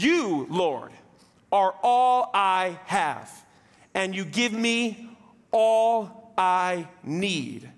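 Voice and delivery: slow, solemn reading of the psalm; scripture reading. Acted. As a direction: read it slowly and reverently, like a prayer. Reads Psalm sixteen.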